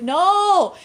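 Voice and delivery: high, loud mock cry; imitated drawn-out protest; retold insistent refusal. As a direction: call out a stubborn no.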